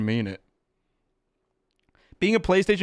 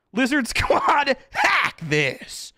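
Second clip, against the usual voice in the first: slow, much higher shouted name with a laugh; 11 semitones higher, much slower than usual. Real, not acted. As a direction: call them out, half laughing. Mock calling out hackers.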